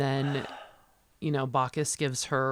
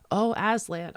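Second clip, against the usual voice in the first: rapturous sigh; 9 semitones higher, 5 dB louder than usual. Retold or imitated. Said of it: "And she opens her eyes and says".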